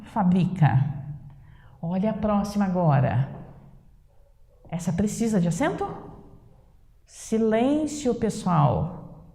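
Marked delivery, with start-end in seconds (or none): 0.0-0.9 "fabrica" whispered, stress on the second syllable. Shown as a demonstration. Teacher to class, whispers "fabrica" stressed on the second syllable. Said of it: "Sem acento". 7.0-9.2 teacher calling for quiet. Pretend. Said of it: "Quando a professora pede silêncio".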